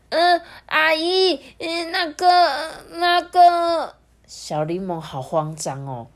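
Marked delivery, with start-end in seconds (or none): 0.1-3.9 put-on high, halting child voice; panicked stammering. A narrator's reading. Little Lemon at auntie's door, flustered stammer. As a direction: stall on every word, too flustered to get it out. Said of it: "说话又开始结结巴巴了".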